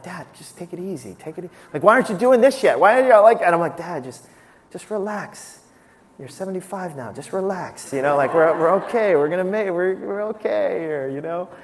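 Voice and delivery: put-on gently talking an old man down; calming his father. Soothing his pushy father.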